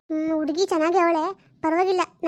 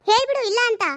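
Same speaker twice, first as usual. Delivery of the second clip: insistent demand; 5 semitones higher than usual. Acted. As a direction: push her harder to deny it. Niece repeats her demand, louder.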